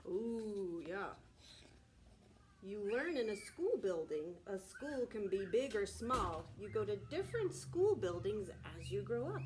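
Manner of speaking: loud, animated read-aloud; reading to children. A narrator's reading. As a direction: read it big and bright for little listeners. Reading picture book aloud.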